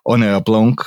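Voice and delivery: "Honor Blanc" said in a self-admitted clumsy French accent; a quick, slightly botched French accent on "Honor Blanc". Shown as a demonstration. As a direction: attempt a French pronunciation of "Honor Blanc", a bit awkwardly. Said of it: "my French accent is appalling".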